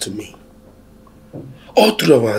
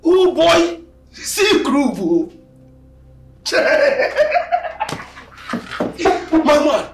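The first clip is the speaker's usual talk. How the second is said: gleeful whooping; 11 semitones higher than usual. Acted. Friend whooping with delight at the dream confession. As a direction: cheer your friend on, delighted.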